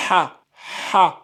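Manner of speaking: "ha" with a strongly audible H from the throat; separate, fully breathed Arabic "ha"; throaty voiced-out H. Shown as a demonstration. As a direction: open the mouth and push "ha" out from the throat. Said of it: "vous prononcez bien le H".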